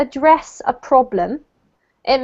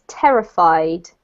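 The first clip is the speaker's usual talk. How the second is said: TER in terrified stressed, rest lighter; stress on first syllable; 7 semitones lower, slower than usual. Shown as a demonstration. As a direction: hit the start of terrified, let the end drop. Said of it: "emphasis is actually on this syllable".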